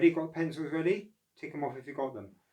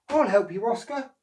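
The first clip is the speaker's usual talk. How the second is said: louder, higher friendly call; 10 semitones higher, 8 dB louder than usual. Acted. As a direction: call out to offer help. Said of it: "called a voice".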